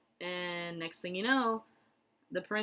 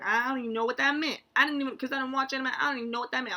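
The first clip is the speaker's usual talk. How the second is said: baffled protest; 6 semitones higher, 5 dB louder, much faster than usual. Real, not acted. Recalling bafflement at being compared.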